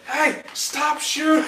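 high, slow, drawn-out shout; yelling for help. Acted. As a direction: call out loudly to halt the shooting. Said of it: "You're yelling for help".

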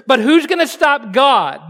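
preacher raising the question with force; forceful question. Acted. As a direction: press the question home to the room. Same question repeated with force.

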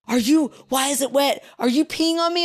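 high-pitched incredulous questioning; mock appalled disbelief. Stranger finds his lap wet, mock appalled disbelief. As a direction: voice a baffled stranger's rising alarm.

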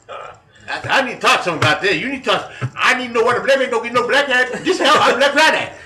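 high, loud rant in put-on African American English; hammed-up irate prank caller, imitation African American accent; mock African American accent. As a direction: build to a shrieked fake African American accent. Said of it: "I did a decent Ebonics imitation".

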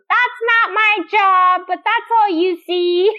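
mocking Claire. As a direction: sneer it out like a sulky wife. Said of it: "And she goes".

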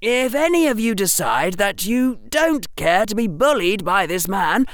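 put-on defiant boy's voice. A narrator's reading. Harry defies the teacher.

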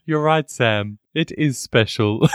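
mildly patronizing, humouring tone; condescending Frodo. Acted. Host acting Frodo placating Sam, mildly condescending. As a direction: humour him with mock sincerity. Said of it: "how condescending Frodo is of Sam".

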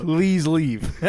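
pleading. Acted. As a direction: beg them to go, stretching it slowly. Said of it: "you're not ordering me to get out".

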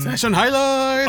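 slow, drawn-out segment call; announcer voice. Acted. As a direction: announce it like a show host.

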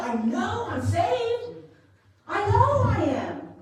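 high, slow mock-confident claim; high, drawn-out mock confidence; mock self-assurance. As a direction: parody the smug believer, high and slow. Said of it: "How many times I heard that?".

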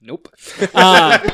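sputtering over a sip; laughing through a mouthful of drink; while sipping a drink. Real, not acted. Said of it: "I'm drinking a new energy drink".

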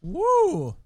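high loud whoop after a shot. Real, not acted. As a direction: let out a burning shot whoop.

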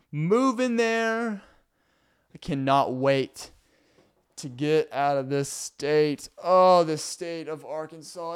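slow, drawn-out theatrical lament; mock dramatic. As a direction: overplay weary disdain, slowly. Mock dramatic farewell to Arkansas.

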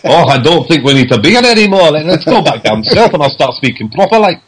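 a rough go at Geordie, drifting southern; acted-out quote in a wobbly Geordie accent. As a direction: slip into a loose put-on Geordie. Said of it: "I went into Geordie then".

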